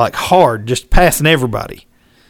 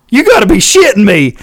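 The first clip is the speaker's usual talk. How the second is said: disbelief; 6 semitones higher, 4 dB louder than usual. Retold or imitated. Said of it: "I was like".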